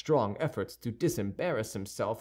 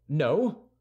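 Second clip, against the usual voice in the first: piqued; 3 semitones higher, 4 dB louder than usual. Acted. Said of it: "replied D'Artagnan, piqued".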